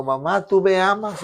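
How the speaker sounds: put-on a little boy calling to his mother in the night; mild child's plea to mom; child crying out. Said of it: "gritando y preguntando".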